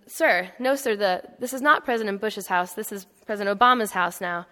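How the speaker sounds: put-on crisp, firm, formal answer to an old man; a Marine correcting him with patient courtesy; sir-no-sir military politeness; polite Marine. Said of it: "And the Marine says".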